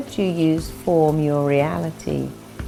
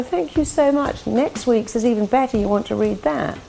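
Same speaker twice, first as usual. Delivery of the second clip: higher, delighted thank-you; bright confident thanks; 4 semitones higher than usual. Retold or imitated. Confident person thanked for a speech, gladly delighted. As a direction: accept the compliment gladly, voice lifting.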